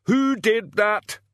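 high, loud furious questioning; angry demand. A narrator's reading. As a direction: demand the culprit, losing your temper. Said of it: "demanded Medium Dave".

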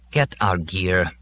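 slow, utterly worn-out order; overwhelming weariness. Acted. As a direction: drag it out, exhausted. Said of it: "with overwhelming weariness".

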